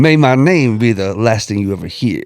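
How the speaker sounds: slow, solemn mock introduction; measured, mock-ominous delivery; deadly serious imitation. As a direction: mimic someone being deadly serious, drawing out the name. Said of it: "He is serious as can be".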